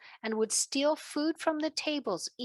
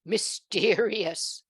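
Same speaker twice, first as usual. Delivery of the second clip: laughing; 2 semitones lower, 3 dB louder, much slower than usual. Acted. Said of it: "laughed the king".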